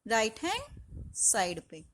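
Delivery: Right hand side पे spelled out slowly for the class; slow, deliberate teacher repeat; slow and clear. Shown as a demonstration. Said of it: "कहाँ लगेगी?". (धीरे-धीरे, साफ़ बोलकर)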